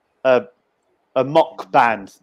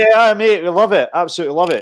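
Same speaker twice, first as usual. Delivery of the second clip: put-on Scottish accent; 3 semitones higher, faster than usual. A guest asks for the Scottish accent, and he does a mock Scottish voice. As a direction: ham up a Scottish accent because a mate asked. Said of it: "You gotta do the Scottish accent".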